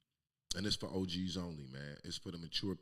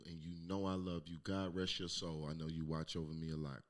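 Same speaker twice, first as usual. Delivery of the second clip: tender; 4 semitones lower than usual. Real, not acted. Addresses his late godmother.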